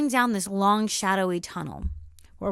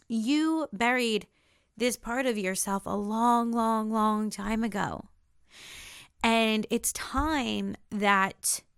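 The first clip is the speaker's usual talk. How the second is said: slow, solemn pronouncement; slower than usual. Retold or imitated. Shadow revealing to the dreamer what she buried, slow and solemn. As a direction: let each phrase land slowly, like a grave revelation.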